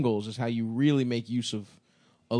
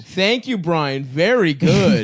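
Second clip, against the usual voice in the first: patronizing praise; 6 semitones higher, 9 dB louder, slower than usual. Acted. Praising the intern like a teacher.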